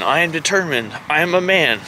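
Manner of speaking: lightly mocked earnest mantra; imitating yoga men. Vlogger mimicking the men planking behind, mock-earnest. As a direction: mimic men chanting affirmations mid-plank. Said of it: "And they're going".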